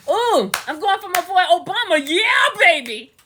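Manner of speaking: acting out a gushing former self; mock enthusiasm. Speaker imitating herself before using her brain, mock excitement. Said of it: "I'm like".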